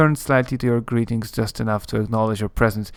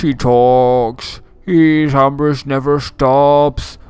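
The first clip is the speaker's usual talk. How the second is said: louder, dragged-out undead voice with heavy effort; slow zombie voice; 4 dB louder than usual. Acted. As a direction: push each word out slowly like a tired zombie. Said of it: "Slowly, as if with grave effort".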